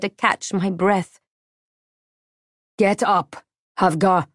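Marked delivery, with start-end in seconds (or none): 2.8-4.3 calm. A narrator's reading. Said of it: "the slave master said calmly".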